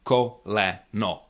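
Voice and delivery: Koleno slowly, every vowel full; fully pronounced vowels. Shown as a demonstration. Teacher showing Czech unstressed syllables, Koleno with all three vowels full. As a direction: say Koleno with no reduced vowels, unhurried. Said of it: "there's no diminishing quality".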